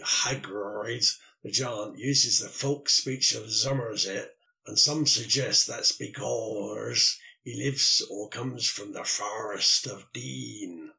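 slow, rolled-R West Country reading, lightly done; a modest stab at a Somerset Mummerset accent; unhurried West Country accent, only lightly put on. Shown as a demonstration. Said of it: "So you should say".

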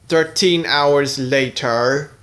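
slow, drawn-out narrator voice; narrator time card. A narrator's reading. Narrator tells the audience hours have passed: slow narrator voice. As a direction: announce the time skip like a movie trailer.

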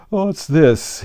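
sleepy lion's booming question; deep, hollow tone. A narrator's reading. The tired Lion blinks at Alice, deep and hollow. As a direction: toll it out like a great bell. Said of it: "speaking in a deep, hollow tone".

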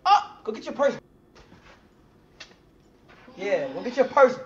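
loud teasing. Real, not acted. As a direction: tease her loudly, drawing it out. Teasing her to go.

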